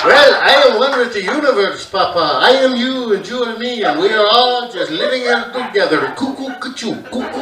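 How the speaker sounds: mock hippie. Kid mocking dad, hippie.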